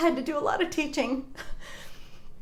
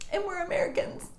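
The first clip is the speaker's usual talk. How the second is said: ugly crying. Real, not acted. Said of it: "I'm ugly crying".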